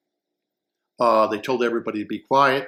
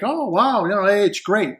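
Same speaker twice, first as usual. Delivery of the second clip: excited wow; 6 semitones higher than usual. Retold or imitated. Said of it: "you're gonna think".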